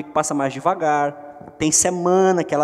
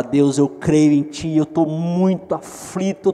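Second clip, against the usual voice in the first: tender prayer; slower than usual. Acted.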